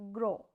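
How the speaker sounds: "grow" modelled without nasal sound; non-nasal gros. Shown as a demonstration. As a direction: say "grow" clean, not through the nose. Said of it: "not from your nose".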